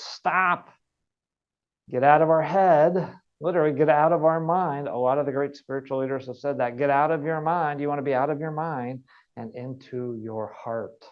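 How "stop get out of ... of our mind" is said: loud, higher urgent command; urgent call. Real, not acted. Coach urges listeners to stop, loud and urgent. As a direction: snap them out of their heads. Urging to hit the brakes.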